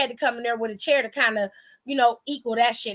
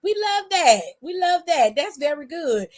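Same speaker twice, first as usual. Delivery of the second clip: 1 high excited cheer; 5 semitones higher than usual. Retold or imitated. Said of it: "I was like".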